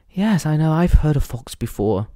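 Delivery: lightly imitated proper English; imitating a friend's proper English accent; middle-class English accent. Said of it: "she got this wonderful fucking accent".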